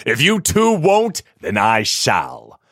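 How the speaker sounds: contempt for the idle diggers; angry challenge. Acted. Master scolds the diggers.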